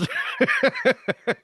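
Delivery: high delighted burst of laughter; gleeful laugh. Real, not acted. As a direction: laugh at his own secret glee. Gleeful at his own secret.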